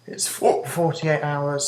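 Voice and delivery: talking through hiccups; words broken by hiccups; hiccuping. Real, not acted. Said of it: "the reason I'm hiccuping a lot".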